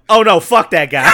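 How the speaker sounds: hammed-up dismissive yell through laughter; laughing mock outburst. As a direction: blurt it out while cracking up. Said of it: "and you were like".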